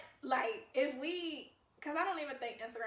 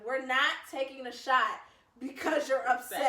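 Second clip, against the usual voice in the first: firm refusal; 5 dB louder than usual. Retold or imitated. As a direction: say no like a stern roommate. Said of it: "She was like".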